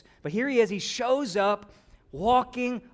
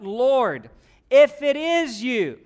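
louder, higher call across the storm; Peter calling out; 3 semitones higher, 7 dB louder, much slower than usual. Acted. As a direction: shout it over the wind. Peter yells out from boat.

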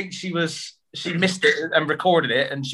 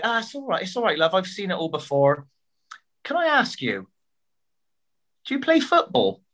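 put-on chirpy older woman, climbing much higher into the question; Lynn's voice; 3 semitones higher than usual. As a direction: reassure breezily, then perk up high. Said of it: "then she's like".

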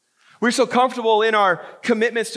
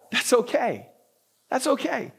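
reassuring; 4 semitones higher, 4 dB quieter than usual. Real, not acted. Pastor reassuring the congregation.

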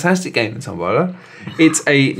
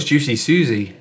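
put-on a light Scottish accent on "Juicy Susie"; slower than usual. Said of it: "If you do it in a Scottish voice".

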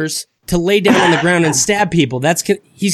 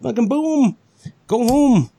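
gleeful boom; 7 semitones higher, slower than usual. Acted. Punchline after the rescue.

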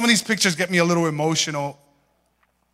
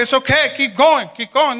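mom's voice; 7 semitones higher than usual. Retold or imitated. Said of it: "She like".

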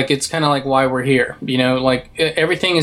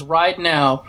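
quoting Theoden; slower than usual. Retold or imitated. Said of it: "And he says".

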